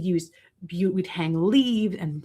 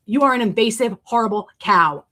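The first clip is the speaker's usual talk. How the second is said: heated; 3 semitones higher, 4 dB louder than usual. Real, not acted. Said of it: "I got really heated there for a second".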